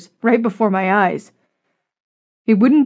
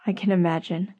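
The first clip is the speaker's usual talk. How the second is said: soft, subdued reply; quiet, understated sadness; sad smile; 7 dB quieter than usual. A narrator's reading. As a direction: say it softly through a sad smile. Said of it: "I said, smiling sadly".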